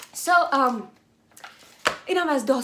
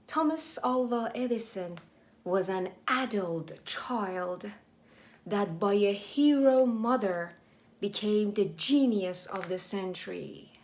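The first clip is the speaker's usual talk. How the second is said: slow reading; slower than usual. Shown as a demonstration. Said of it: "slow English read-aloud for learners".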